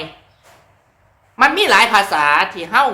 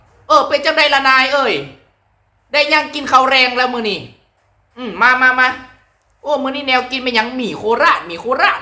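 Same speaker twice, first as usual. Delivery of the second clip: higher, cheerful Korat dialect; higher Korat dialect greeting; 6 semitones higher than usual. Shown as a demonstration. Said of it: "บัดทีนี้เว้าภาษาโคราชได้บัด".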